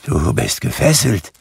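a touch of trembling fear; mildly frightened. A narrator's reading. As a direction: say it timidly to a ghost. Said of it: "sagte Scrooge zitternd".

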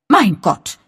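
high, loud startled exclamation. A narrator's reading. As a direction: jump at a sudden bang. Startled by loud bang outside. (erschrocken aufgeschreckt, hoch und laut)

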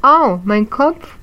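high, loud, slow wail of pain; little ghost moaning over his head; ouch-crying little ghost; whimpering. Acted.

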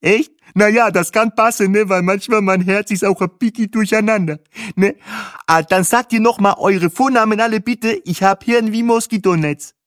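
high, loud, squawky voice; squawky, easygoing guide on a headset; Bahe, chummy tour driver. A narrator's reading. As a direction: introduce yourself high and loud.

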